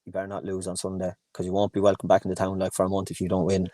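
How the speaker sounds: low, quiet mock-serious warning; deadpan. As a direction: imitate a straight-faced local, voice dropped. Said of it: "looked at me deadpan".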